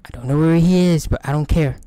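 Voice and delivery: panicked shout. Real, not acted. Running past the monster.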